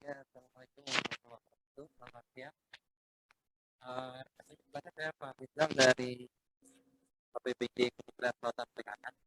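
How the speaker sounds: choppy connection cutting out; radio breaking up. Real, not acted. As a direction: voice dropping in and out. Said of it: "suaranya putus-putus".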